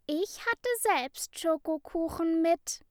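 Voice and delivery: put-on high, sing-song child voice; fluting. A narrator's reading. Johanna calls sweetly from the back corner, high and fluting. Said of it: "flötete Johanna".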